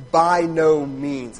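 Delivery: slow, loud BY NO MEANS; forceful. Shown as a demonstration. Preacher shows the force of Paul's answer, forceful. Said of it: "is forceful".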